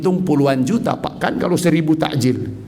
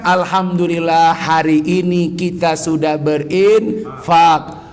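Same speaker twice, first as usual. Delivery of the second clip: grateful wife; slower than usual. Retold or imitated. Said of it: "Istrinya yang mengatakan".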